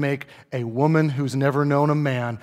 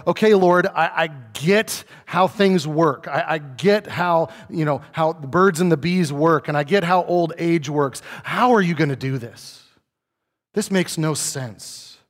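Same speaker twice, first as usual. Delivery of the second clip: perplexed. Retold or imitated. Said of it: "we see this perplexity".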